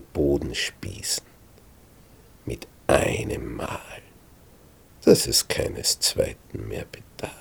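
hushed urgent whisper. A narrator's reading. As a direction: whisper it so the camp stays asleep. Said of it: "Abishai flüstert zu David".

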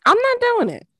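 loud, high, stubborn no; emphatic refusal. Real, not acted. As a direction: put your foot down, loud and high. Refusing to turn heat on.

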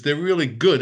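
mildly excited grandmother, last word lifted; a little excited. Retold or imitated. Grandmother praising the meatballs before anyone can answer, mildly excited. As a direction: imitate a slightly excited grandmother. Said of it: "got, got a little excited".

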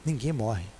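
soft, low murmured repeat; quiet and low. Real, not acted. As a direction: drop low and almost whisper it. Soft repetition after pause. (repetição baixa e grave)

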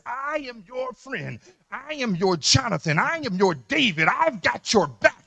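"I am your friend" rising to a loud ringing vow; loyal friend's vow. Acted. Preacher voicing a true friend's promise to the congregation, loud and building.

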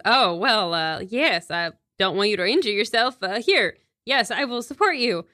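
mildly flustered, halting gallantry; lightly acted awkward gentleman; awkward with ladies. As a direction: try to seem impressive and fumble it. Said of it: "terrible at talking to the ladies".

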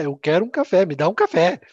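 a customer yelling for coffee; retold shout. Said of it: "Ele começou a gritar". (grito de cliente revoltado)

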